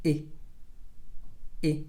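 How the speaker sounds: "I" as a short lax ih; relaxed short I. Shown as a demonstration. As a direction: open "I" up and down, relaxed. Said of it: "your mouth opens up and down".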